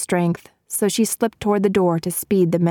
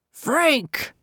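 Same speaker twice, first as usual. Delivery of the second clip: calling out; 9 semitones higher than usual. A narrator's reading. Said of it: "Asa called".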